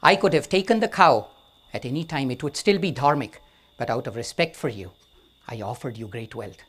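a king putting a monk in his place; angry king. Acted. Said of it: "He's now angry".

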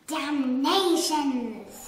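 a slow, drawn-out curse; angry shout. Acted. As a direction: spit out the curse in frustration. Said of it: "shouted the Duke".

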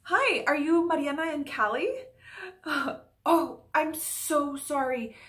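lightly played flustered landlord; monologue take. Landlord greeting new tenants Mariana and Callie, flustered. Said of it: "performing a monologue from Good Trouble".

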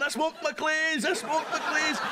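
mocking junkie. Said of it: "like that".

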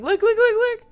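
high-pitched excited squealing. Real, not acted. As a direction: squeal like a delighted fan. Spotting Pokemon in the game.

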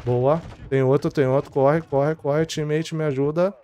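being chased. Real, not acted. Chased by enemy, calling for help.

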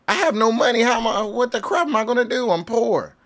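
high-pitched, comic lament; mock despair. Player bemoaning having no money, high mock despair. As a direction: wail it in a high mock panic.

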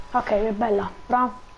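hiccuping while talking; with hiccups. Real, not acted. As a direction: speak through hiccups. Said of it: "Scusa, ma ho il singhiozzo".

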